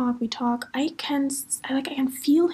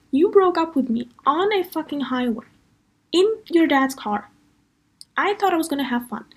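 raised-pitch, aggrieved protest; retold indignant accusation; 5 semitones higher than usual. Retelling confronting the boyfriend about the highway breakup, indignant. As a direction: hammer home the grievance in higher pitch.

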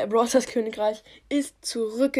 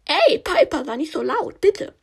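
high queen voice; 5 semitones higher, 4 dB louder than usual. Acted. Queen hushes Piper.

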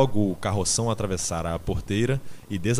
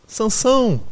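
very high, loud cry; screamed name; 13 semitones higher, 8 dB louder than usual. A narrator's reading. Quitéria cries after Sansão, screaming high. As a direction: call out to a friend being carried off. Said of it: "gritou ela".

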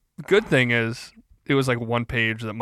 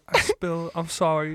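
put-on higher, small childish confession; childish apology to the teacher; little kid; 6 semitones higher than usual. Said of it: "Like a little kid".

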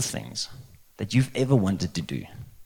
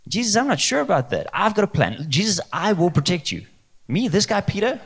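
high-pitched, halting, self-assured adviser; hammed-up doubt swelling into bravado; cocky Peter; 7 semitones higher than usual. Peter telling Jesus he has a better plan, high cocky bravado. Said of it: "Peter was like".

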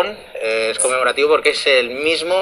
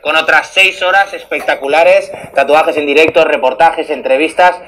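monster truck ad. Acted. Promo for tomorrow's show.

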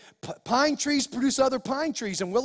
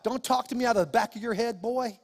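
retold scolding. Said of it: "I get mad then".

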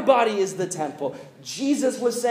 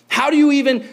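incredulous shout; 8 semitones higher, 7 dB louder than usual. Retold or imitated. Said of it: "they say".

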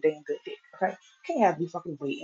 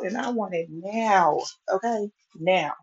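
spoiled Veruca Salt demand; slower than usual. Acted. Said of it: "I am Veruca Salt".

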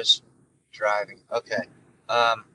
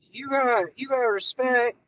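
Joe Biden impression; 5 semitones higher than usual. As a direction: settle into a lightly voiced old-man Biden. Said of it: "shitty Joe Biden impression".

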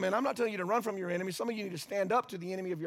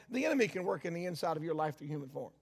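quieter, faster contrast; 4 semitones lower, 6 dB quieter, faster than usual. Acted. Preacher contrasts God and the enemy, quieter. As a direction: drop to a quieter, faster echo of the line before. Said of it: "Just like God can work".

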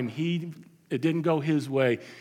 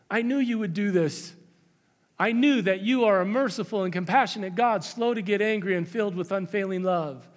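higher, pressing, almost accusing; bitter complaint; 5 semitones higher than usual. Acted. Jonah complaining to God, higher and heated. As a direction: throw God's mercy back at him like a grievance.

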